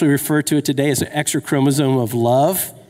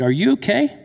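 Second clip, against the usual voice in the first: concerned question; 5 semitones higher than usual. Retold or imitated. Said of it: "I said".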